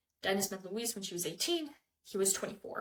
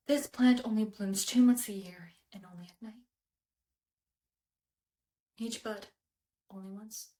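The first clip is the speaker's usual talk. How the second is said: whisper. Acted. Intimate confession over a flower.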